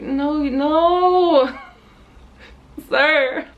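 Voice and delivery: laughing polite refusal; cheerful firm no. Retold or imitated. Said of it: "I'm being super polite the whole time".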